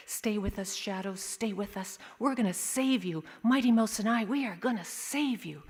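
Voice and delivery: hushed start, gaining a little resolve; earnest prayer. Acted. Child praying for injured dog, earnest and pleading. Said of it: "We are saying a prayer".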